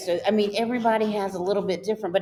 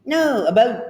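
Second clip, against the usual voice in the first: insistent imitated Canadian 'about', pitched higher; Canadian accent; 5 semitones higher, 3 dB louder than usual. Husband insisting to his wife, imitated Canadian accent. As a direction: correct her with a Canadian OH in 'boat'. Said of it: "he has the Canadian sound".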